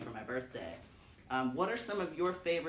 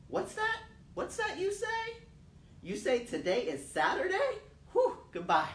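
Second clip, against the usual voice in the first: much higher, louder, laughing with relief; sudden joy; 5 dB louder than usual. Acted. Sick child learns it's Saturday, laughing high delight. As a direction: squeal it out, the sickness gone.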